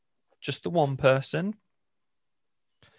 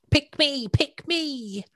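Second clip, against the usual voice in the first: high, eager little calls; eager pleading; 12 semitones higher, much slower than usual. Pretend. Mimicking dating app users begging to be chosen, high and eager. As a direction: beg to be chosen like a keen child.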